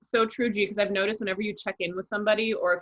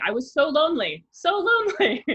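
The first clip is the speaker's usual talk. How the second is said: lonely; 8 semitones higher, 5 dB louder than usual. Real, not acted. Confessing loneliness.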